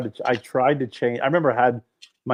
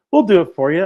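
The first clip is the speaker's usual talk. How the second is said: cocky mechanic; 7 semitones higher, 8 dB louder than usual. Retold or imitated. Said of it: "he goes".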